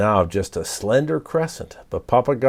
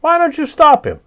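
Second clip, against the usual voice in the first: parrot voice; 6 dB louder than usual. Acted. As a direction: drag out the word like an indignant bird. Papagayo challenges creatures.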